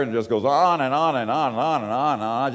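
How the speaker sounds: fast, running-on list voice; mock exasperation. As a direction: rattle on and on as if it never ends. Mocking endless obituary.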